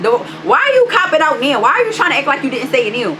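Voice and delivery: high-pitched, indignant questioning; retold angry challenge. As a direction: call out a backtracker, replaying the argument. Retold quarrel, challenging his denial.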